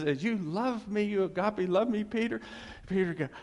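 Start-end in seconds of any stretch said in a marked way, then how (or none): 0.2-2.4 high-pitched, lively imitation; playful raised-pitch interrogation; acted pressing question. Jesus questioning Peter, acted.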